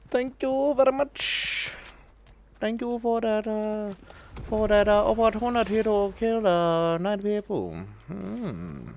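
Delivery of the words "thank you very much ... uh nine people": higher, hammed-up gracious acceptance speech; mock thank-you speech. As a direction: thank the crowd like an award winner.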